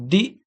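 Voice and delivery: teacher counting syllables for the class; split into syllables. Shown as a demonstration. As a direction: clap out Di-fi-cult syllable by syllable. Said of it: "It is a three syllable word".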